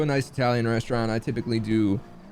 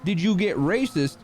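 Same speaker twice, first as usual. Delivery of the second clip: incredulous retort; 6 semitones higher than usual. Retold or imitated. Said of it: "I was like".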